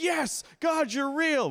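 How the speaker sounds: high, loud mock-eager praise; eager believer. Preacher mimics a believer gushing praise to God, high and eager. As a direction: gush it like a giddy new believer.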